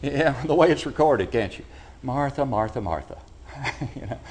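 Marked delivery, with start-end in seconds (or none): 2.0-3.2 mild rebuke. Retold or imitated. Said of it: "hear it in his".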